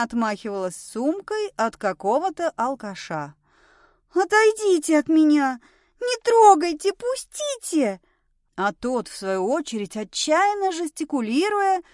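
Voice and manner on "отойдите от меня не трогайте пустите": high, loud panicked shouting; hysterical cries. A narrator's reading. Woman fighting off a drunk with her bag, hysterical. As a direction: cry out as if fending someone off. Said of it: "крики Милы".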